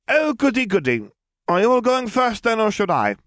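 put-on high, lively girl's voice; excited high-pitched girl; bright young girl voice. A narrator's reading. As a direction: play the cheerful odd little girl. Voiced character, Lily.

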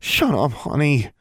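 mildly fed-up hushing; weary sigh. A narrator's reading. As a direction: sigh it out at a naughty pet. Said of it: "Angelique sighed".

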